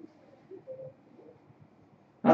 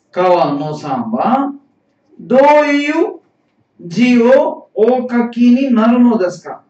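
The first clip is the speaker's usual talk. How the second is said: deliberate teacher's read-aloud, voice lifted mid-sentence; 3 semitones higher than usual. Shown as a demonstration. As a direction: read it out phrase by phrase for learners. Teacher rereads dialogue line for learners.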